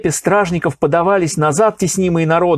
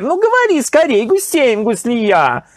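impatient urging; 8 semitones higher than usual. A narrator's reading. Emir urging Nasreddin to name the culprit, impatient. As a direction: push him to speak, now. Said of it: "нетерпеливо воскликнул эмир".

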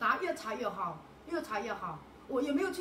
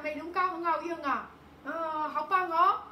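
excited praise; 4 semitones higher, 6 dB louder, slower than usual. Real, not acted. Praising beauty cream excitedly.

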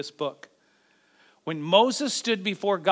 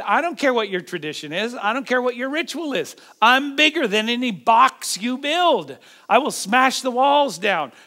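forceful, emphatic defiance, pitched up; defiant declaration; 5 semitones higher, 5 dB louder than usual. Acted. Preacher voices Jesus defying tradition, defiant declaration. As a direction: declare it boldly, punching key words.

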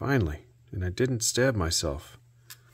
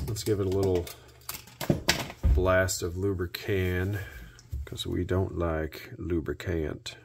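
put-on southern accent; 4 dB quieter than usual. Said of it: "Why do I pull out a southern accent for that?".

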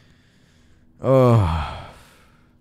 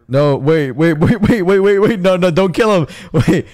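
urgent; 4 dB louder than usual. Real, not acted. Stopping a fight.

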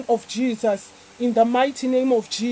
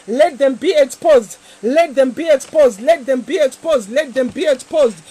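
fervent preaching. Acted. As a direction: declare it with full fire. Declaring prayer over listeners.

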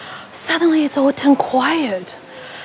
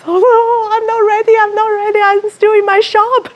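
playful protest; 7 semitones higher than usual. Retold or imitated. Protesting eyes opening.

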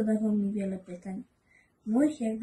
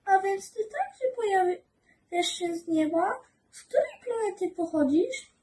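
put-on higher, curious child voice; little prince; 11 semitones higher than usual. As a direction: ask like a wondering small boy.

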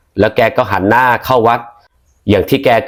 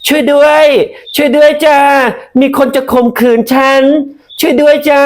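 shouting for help. Acted. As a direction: scream for rescue as if in danger. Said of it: "เดี๋ยวปูจะตะโกนว่า".

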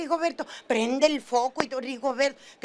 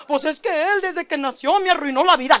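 put-on kid whining; 5 dB louder than usual. Niño se queja del hermano.

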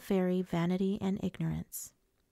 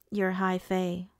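tight; slower than usual. A narrator's reading. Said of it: "I said tightly".

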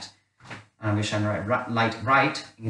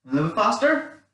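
excited countdown call; 10 semitones higher than usual. Real, not acted. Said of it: "then get faster and faster".

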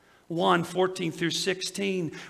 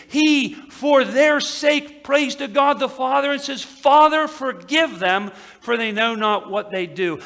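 rising preacher's cry; 8 semitones higher, 9 dB louder than usual. Real, not acted. Preacher building to Jesus' prayer.

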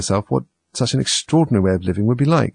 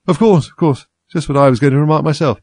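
higher, louder Dormouse character voice; drowsy Dormouse; 7 semitones higher, 6 dB louder than usual. A narrator's reading. The dozing Dormouse answering the Hatter, impatiently. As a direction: agree impatiently from half sleep. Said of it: "said, without opening its eyes".

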